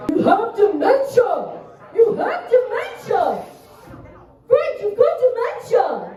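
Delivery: high, drawn-out child shriek, imitated; daughter yelling at dog. Daughter yelling at old dog Frank, imitated high child voice. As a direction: mimic a little girl scolding at high pitch. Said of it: "I'll hear my daughter be like".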